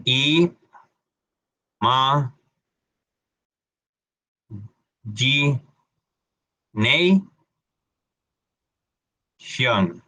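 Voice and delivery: I ma gi nei xion, slow syllables with long pauses; syllable-by-syllable demo. Shown as a demonstration. Teacher breaks the word into sounds for students. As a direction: spell Imagination out by sound. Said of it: "Sonido de la O".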